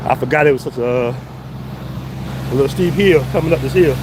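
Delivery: slow, winded speech; out of breath. Real, not acted. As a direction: gasp it out after a steep hill. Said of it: "Let me catch my breath a little bit".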